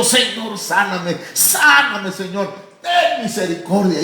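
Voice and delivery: fervent prayer. Acted. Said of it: "orando, hermano, fervientemente".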